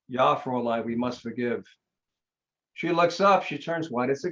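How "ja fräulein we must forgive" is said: put-on German accent. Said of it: "she hears this voice with a heavy German accent".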